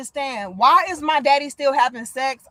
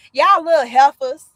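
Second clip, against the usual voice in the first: auntie voice; 3 semitones higher, 6 dB louder than usual. Retold or imitated. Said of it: "we been".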